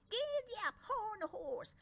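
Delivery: high excited scream. Acted. Twins screaming at Horned Horse in the race, wild excited scream. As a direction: urge the horse on at the top of your lungs. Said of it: "they screamed".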